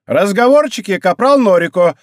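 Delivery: high, loud sergeant's rebuke; exclaimed reprimand. A narrator's reading. Рейка silences her grumbling corporal, exclaiming. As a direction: call a grumbler to order. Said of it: "воскликнула Рейка".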